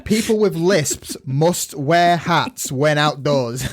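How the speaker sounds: slow, mock solemn, giggling; laughing decree. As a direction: proclaim it while laughing.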